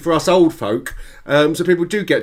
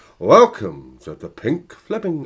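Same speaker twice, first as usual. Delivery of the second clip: put-on strong, sing-song northern English accent, drawn out. Recalling the voice heard off the Margate seafront, northern English accent. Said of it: "I can't do the accent; very northern".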